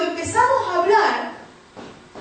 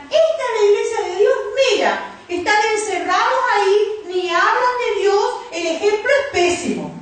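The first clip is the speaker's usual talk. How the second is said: raised-pitch mocking criticism; imitated scoffers; 5 semitones higher than usual. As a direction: act out onlookers sneering at the church. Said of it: "aún se reirán". (burla imitada, en tono más agudo)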